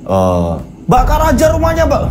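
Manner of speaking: burn the house, shouted high from the crowd; angry villager shout. Acted. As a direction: yell it like an angry villager egging on the headman. Angry villagers outside the gate.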